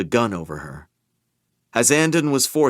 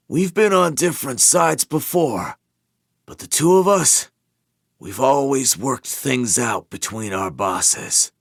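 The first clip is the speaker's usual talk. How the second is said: calm reasoning under pain; 4 semitones higher than usual. Acted. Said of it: "strained with pain, but calmly, urgently reasonable".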